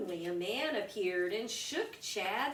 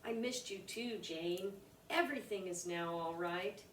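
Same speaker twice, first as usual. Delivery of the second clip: softer, gentle father reply; tender dad; 2 semitones lower, 5 dB quieter than usual. Acted. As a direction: comfort his daughter softly. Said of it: "dad answers tenderly".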